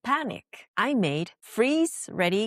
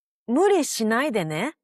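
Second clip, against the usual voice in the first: gentle caring phrase; 3 dB louder, faster than usual. Shown as a demonstration. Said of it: "the simplest move is adding this right after your sentence".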